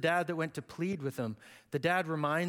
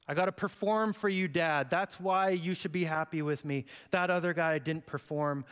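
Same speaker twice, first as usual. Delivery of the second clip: whiny tirade. Acted. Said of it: "his whiny little tirade".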